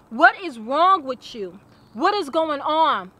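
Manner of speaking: slow, drawn-out, emphatic questions; insistent questioning. Retold or imitated. Best friend drilling her for answers, slow and insistent. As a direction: drill them with each stretched-out question. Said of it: "questioning me and drilling me".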